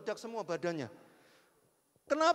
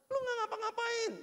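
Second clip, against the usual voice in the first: much higher, squealing astonishment; excited disbelief; 14 semitones higher than usual. Real, not acted. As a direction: burst up in amazement. (takjub dengan suara sangat tinggi)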